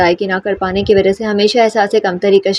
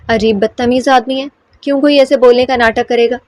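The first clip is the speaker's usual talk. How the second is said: angry; 3 semitones higher than usual. Acted. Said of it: "صبا نے غصے سے کہا".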